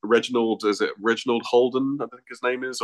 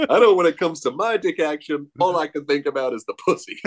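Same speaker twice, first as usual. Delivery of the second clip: imitating Pee-wee; 7 semitones higher than usual.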